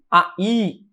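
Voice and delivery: "A I" slowly, as two separate vowels; hiatus. Shown as a demonstration. Teacher naming the hiatus, "A I" said slowly as separate vowels. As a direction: spell out "A I" with the vowels held apart. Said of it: "é um hiato".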